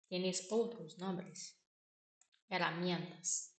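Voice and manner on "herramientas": Herramientas with a rolled Spanish r, eh-rra-MYEN-tas; Spanish pronunciation. Shown as a demonstration. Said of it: "Eles falam herramientas".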